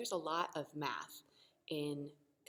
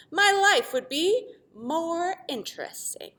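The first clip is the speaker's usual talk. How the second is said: longing plea; 11 semitones higher, 11 dB louder, slower than usual. Acted. Quadrilateral asks.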